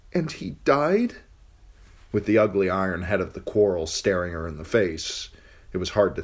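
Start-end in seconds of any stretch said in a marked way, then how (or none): 0.1-1.2 put-on higher, timid girl's voice; frightened girl. Captive girl answering the king, timid and high. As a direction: answer carefully, afraid of him.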